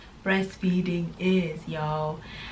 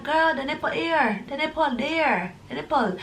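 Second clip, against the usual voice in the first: mock pleading mom; 6 semitones higher than usual. Mom coaxing baby to latch.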